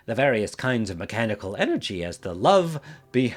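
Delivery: cracking voice on purpose. Acted. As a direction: let the voice crack and break. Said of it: "doing the voice crack thing".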